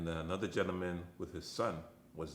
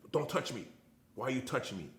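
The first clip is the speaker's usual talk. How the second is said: mildly raised, higher retold yell; mock scream, pitched up; 6 semitones higher, 4 dB louder than usual. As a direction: imitate an agitated man's scream without full volume.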